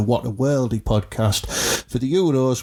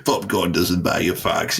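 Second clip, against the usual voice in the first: impression of nasa; 5 semitones lower than usual. Host echoing his co-host's mate's saying, a light mimic. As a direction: echo the line the way nasa says it, lightly put on. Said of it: "it was good impression".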